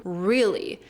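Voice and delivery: "Really" with a pulled-back American R. Shown as a demonstration. Teacher showing the American R, "Really" with tongue pulled back. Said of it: "tension and retraction of the tongue".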